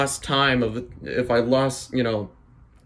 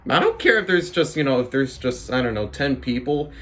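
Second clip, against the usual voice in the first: upbeat pep talk. Retold or imitated. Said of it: "the right mindset of just saying".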